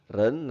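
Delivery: "ren" with a rising second tone. Shown as a demonstration. Teacher explains the Mandarin syllable, "ren" rising in second tone. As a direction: lift the pitch through "ren". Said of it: "nada kedua".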